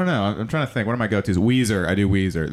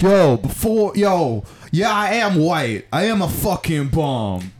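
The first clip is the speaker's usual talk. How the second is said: a famous rapper; 7 semitones higher, much slower than usual. Acted. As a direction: shout it like a hyped-up angry rapper. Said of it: "this is, like, Eminem style".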